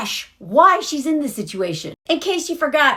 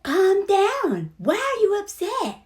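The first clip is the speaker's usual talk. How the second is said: Big brushing her off; mock condescension; 6 semitones higher, slower than usual. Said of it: "And he's like".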